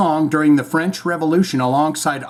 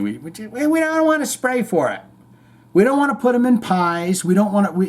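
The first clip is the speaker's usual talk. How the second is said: indignant rant; 6 semitones higher than usual. Acted. Ranting about wasted apples.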